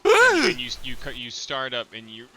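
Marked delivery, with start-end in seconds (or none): 0.0-0.8 startled gasp. Acted.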